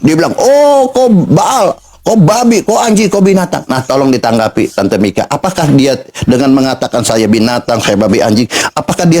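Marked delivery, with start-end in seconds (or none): 0.4-3.7 imitating anger. Debater retelling how the opponent answered him, mock angry. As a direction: mimic an angry opponent hurling names. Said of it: "malah marah".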